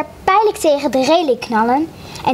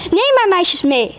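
shouting papa; 5 semitones higher than usual. Acted. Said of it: "schreeuwde papa naar de schuit".

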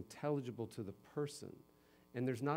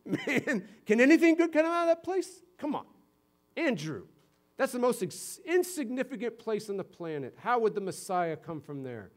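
much higher and louder, incredulous sneer; scoffing disbelief; 9 semitones higher, 7 dB louder than usual. Retold or imitated. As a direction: Nathanael mocking his friend's hometown claim, loud scoffing. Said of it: "what does Nathanael say".

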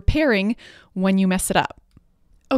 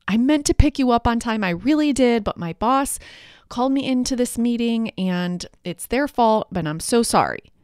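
excuse-making apology; 3 semitones higher than usual. Retold or imitated. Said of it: "Do not justify".

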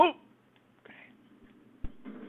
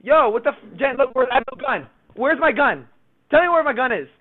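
frantic yelling; 7 semitones higher, 10 dB louder than usual. Real, not acted. Panic, gun missing.

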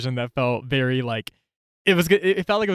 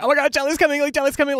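mock panic; 11 semitones higher, faster than usual. Panicked whisper to friends as crush approaches.

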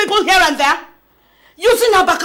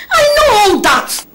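tearful; 5 semitones higher, 4 dB louder, slower than usual. Acted. Mother pleading with crying sound.

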